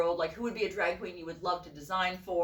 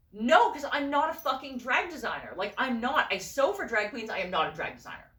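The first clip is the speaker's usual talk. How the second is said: emphatic retold protest, higher at the start; exasperated refusal; 4 semitones higher than usual. Refusing the friend's nudge to sign up, exasperated. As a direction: act out fed-up insistence.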